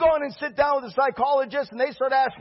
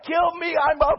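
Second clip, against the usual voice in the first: whiny, drawn-out cry of failure; mock despairing wail; 3 semitones higher, slower than usual. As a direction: wail it like a beaten man. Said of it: "And he's like".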